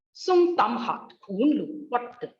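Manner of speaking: SUNG sustained high and level. Shown as a demonstration. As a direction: recite the tone drill, starting high on SUNG. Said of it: "this is the high level tone".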